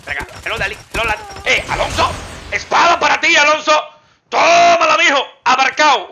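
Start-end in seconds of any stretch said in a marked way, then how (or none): 1.5-6.1 loud, high gloating shout; mock the rival as you hit him; taunting yell. Real, not acted. Player yelling taunts at enemy Alonso while slashing.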